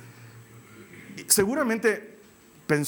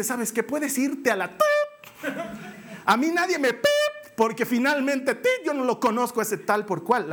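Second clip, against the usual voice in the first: mock cursing; 5 semitones higher than usual. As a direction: fake a cussing rant. Peter cursing, words bleeped.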